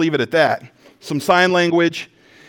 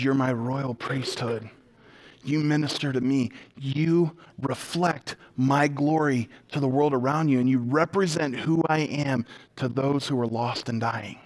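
reassuring; 5 semitones lower, 7 dB quieter than usual. Acted. God speaks to those who fall short, softly reassuring.

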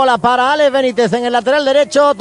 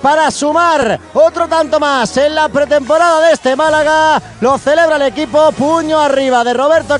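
breakneck goal commentary; 4 semitones higher than usual. Real, not acted. Excited goal recap commentary.

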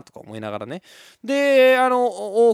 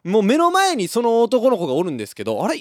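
ordinary delivery

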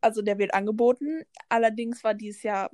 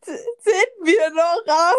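mock whine; 7 semitones higher, 6 dB louder, slower than usual. Fake whine about being babies.

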